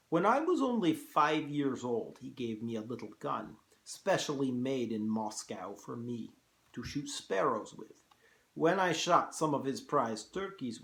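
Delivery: put-on Russian-accented general, grandly telling his life story; theatrical Russian-accented monologue; General Zaroff. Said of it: "hard to do a Russian accent".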